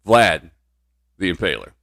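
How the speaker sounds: loud announcer reveal of Vlad; dramatic announce. Real, not acted. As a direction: boom the name.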